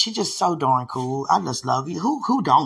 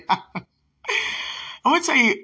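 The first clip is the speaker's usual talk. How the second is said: 1 excited; 10 semitones higher, much slower than usual. Real, not acted. Dramatic lead into dream story.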